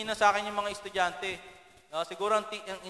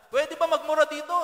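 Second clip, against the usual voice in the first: high, louder yell to the crowd; retold shout; 9 semitones higher, 6 dB louder than usual. Concert performer shouting to the crowd, high loud mock yell. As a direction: belt it out like a rock performer. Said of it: "At sumigaw siya".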